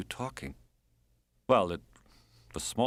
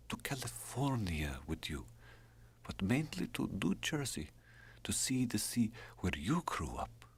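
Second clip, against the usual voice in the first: a wistful lover, half whispered; a dying woman wishing aloud to her lover, lightly voiced; lightly voiced Drenka; 3 semitones higher, 4 dB quieter than usual. Drenka continues her longing.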